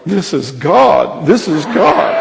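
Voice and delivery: drawn-out awed wail, rising on the repeat; amazed cry, retold. Preacher voices the crying cashier overcome by her healing, amazed. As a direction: imitate someone overcome with wonder.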